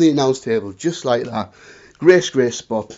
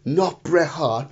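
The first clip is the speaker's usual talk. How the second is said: dismayed groan; 4 semitones higher, 4 dB louder, much slower than usual. Retold or imitated. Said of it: "he's like".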